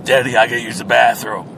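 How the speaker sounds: lightly voiced kid asking; whiny little kid in back seat; child voice. Child voice in driving skit.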